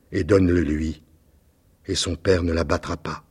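a hint of a sad, gentle prince asking. The prince pleads quietly.

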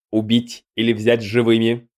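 crisp clipped golem voice. A narrator's reading. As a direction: rap out each word like a construct. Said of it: "чеканно спросил голем". (чеканный голос голема)

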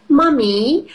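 put-on high little girl voice; child voice. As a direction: squeak it like a small piglet. Peppa voiced in story.

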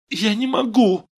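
high, loud wail of refusal; tearful protest. A narrator's reading. Vera refuses Steve and bursts into tears, wailing. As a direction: cry out on the edge of tears. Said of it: "ответила она и заплакала".

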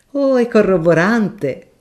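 a shy professor refusing a kindness; mild professor. Acted. Professor answers.

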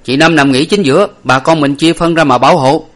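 loud command. A narrator's reading. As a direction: shout so the whole group hears. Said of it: "nói lớn lên cho mọi người". (hô lớn cho mọi người nghe)

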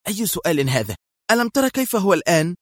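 impatient, eager rebuttal; excited interruption. A narrator's reading. Mona cuts Qadri off, excited. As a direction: cut in, rising high on the second question. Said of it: "قاطعته في انفعال".

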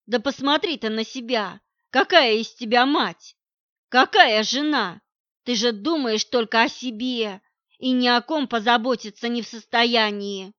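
loud, accusing outburst; husband berates pregnant partner, loud and angry; angry tirade. Acted. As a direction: tear into her, voice climbing. Husband attacks her in quarrel.

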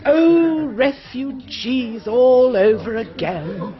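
loud, slow weary groan of complaint; exasperated. Acted. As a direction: sigh it out, fed up. Exasperated at repeated topic.

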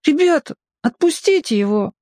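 put-on high, pleading child's voice; little boy begging friends to let him go; timid boy. A narrator's reading. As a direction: ask shyly but bravely.

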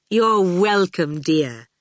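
slow, sweet smiling reply; smiling radiantly. A narrator's reading. Dillion graciously answers Howard's thanks, smiling radiantly. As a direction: draw it out through a smile. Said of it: "smiling radiantly".

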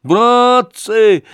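high, loud, quavering cry of "Братцы"; thug's loud whining plea to comrades; trembling, tearful appeal. Acted. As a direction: wail it out for pity. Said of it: "дрожащим, плачущим голосом".

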